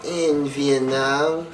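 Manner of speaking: very slow, drawn-out, lightly voiced old man; confused old veteran. Teller imitates roommate with dementia, slow and dazed. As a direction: drag each word out like a muddled old man. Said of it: "he's like".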